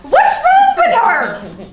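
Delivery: fuming over two smiley faces; indignant outrage. Real, not acted. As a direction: drag it out in disbelief. Outraged at friend's reply.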